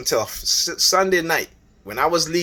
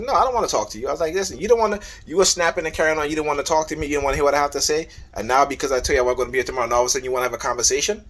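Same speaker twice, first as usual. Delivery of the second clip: indignant refusal; 3 semitones higher, much faster than usual. Retold or imitated. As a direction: pile up the grievances fast. Retold quarrel, refusing to talk.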